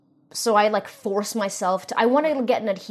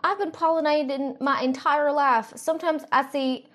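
Republican aunt; 6 semitones higher than usual. Acted. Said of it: "Republican aunt".

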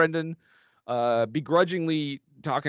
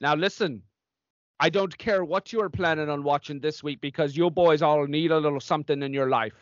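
stern nun announcing; 3 semitones higher than usual. Acted.

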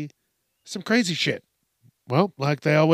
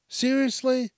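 disbelief; 10 semitones higher than usual. Retold or imitated. Hearing about another reboot.

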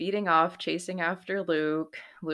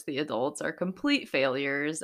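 ordinary delivery

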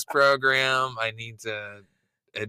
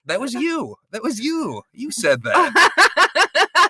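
high laughing accusation, rising louder; 13 semitones higher, 4 dB louder, slower than usual. Real, not acted. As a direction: that was you, much higher through laughter.

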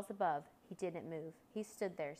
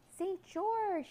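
high, loud, urgent call; urgent shout; 13 semitones higher, 5 dB louder than usual. A narrator's reading. Boy calls out to Saint George, urgent shout. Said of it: "he shouted urgently".

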